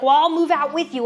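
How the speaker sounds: quick, fast, mock frantic mother; frantic mom. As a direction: blurt it out like a panicked mom. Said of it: "She's being all frantic".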